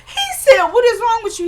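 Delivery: high, laugh-choked quote. Real, not acted. Recapper quoting Eddie's question, laughing. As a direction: squeeze the words out through laughter. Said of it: "makes me laugh".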